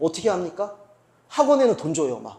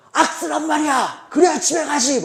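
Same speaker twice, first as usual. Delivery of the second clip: soccer coach shouting; 10 semitones higher, 8 dB louder than usual. Retold or imitated. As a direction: holler at the kids to scream. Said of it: "돈 주고 보낸 축구클럽에서". (축구클럽 코치의 다그치는 고함)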